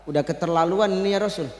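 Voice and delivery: understated grumble of Abu Bakar; fed-up Abu Bakar. Acted. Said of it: "Apa kata Abu Bakar?". (Abu Bakar geram, suara rendah)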